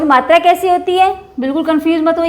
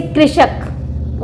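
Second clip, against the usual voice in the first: slow sounding out; much slower than usual. Shown as a demonstration. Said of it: "teacher sounds out example word".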